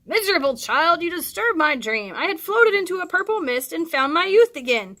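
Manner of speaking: a hint of a cranky, dreamy old man; lightly voiced sleepy old man; grumbling about his lost dream; grumpy dreamy old man. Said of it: "old man woken from dream".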